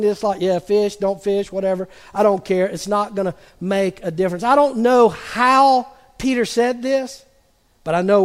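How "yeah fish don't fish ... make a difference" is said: depressed. Retold or imitated. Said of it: "so depressed and discouraged and struggling".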